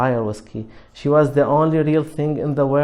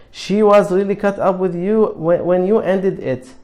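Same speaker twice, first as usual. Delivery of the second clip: raised, heated accusation; 4 semitones higher, 4 dB louder than usual. Acted. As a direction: press the accusation hard. Ron accusing Harry.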